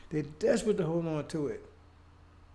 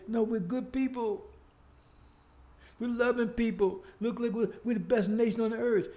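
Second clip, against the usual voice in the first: mocking the smug powerful; 4 semitones higher than usual. Preacher mocking rulers who call themselves good people, mock-proud higher voice. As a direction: ham up their self-praise in a lofty, higher voice. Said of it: "They're desperate to say".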